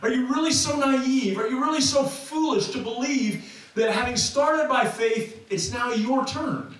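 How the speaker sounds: incredulous Paul. Acted. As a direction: pile up the questions in rising disbelief. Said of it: "Paul is asking".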